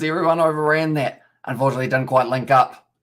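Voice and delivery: energetic sports commentary, following the ball; live play-by-play. Acted. Streamer calling a rugby match for viewers, commentator voice. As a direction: call the game as it unfolds.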